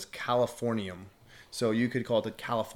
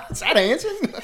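laughing; 12 dB louder than usual. Real, not acted. Laughing in disbelief.

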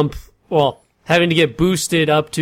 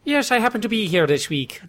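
thick put-on Boston accent, a bit higher; 5 semitones higher, 3 dB quieter than usual. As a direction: lay the Boston accent on heavy. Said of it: "Not that Irish".

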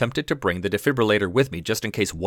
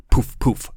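breathy whispered poof sounds; soft pillow poofs; 2 semitones higher, 4 dB louder than usual. Shown as a demonstration. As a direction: puff out soft unvoiced poofs. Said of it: "pillow sound effect".

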